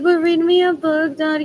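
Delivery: put-on childish plea. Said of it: "I'm like".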